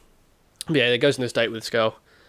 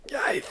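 weird slurping suck noise; mock sucking sound; imitated lemon sucking. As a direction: mimic someone noisily sucking a lemon. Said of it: "in his weird way where he sucks".

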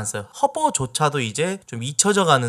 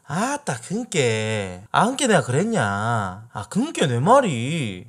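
Jeolla dialect; slower than usual. Shown as a demonstration. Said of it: "네이티브가 알려주는 전라도 사투리".

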